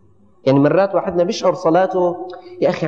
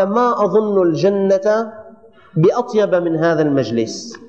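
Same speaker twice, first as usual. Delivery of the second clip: slow emphatic quote; slower than usual. Shown as a demonstration. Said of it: "قاعد بجلسة ذكر".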